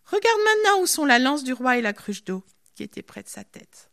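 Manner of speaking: loud taunt; raillerie. Acted. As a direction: tease him loudly with the proof. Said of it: "Il s'est payé le luxe de rigoler un petit peu". (raillerie lancée à voix forte)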